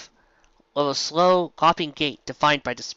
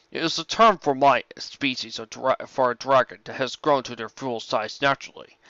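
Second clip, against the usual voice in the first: a calm, measured dragon, close to the narrator's own voice; lightly voiced dragon. Dragon Smog greeting Rainbow Dash, lightly voiced and calm. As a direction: play the courteous old dragon, barely changing the voice.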